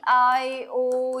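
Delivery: ordinary talk, nothing marked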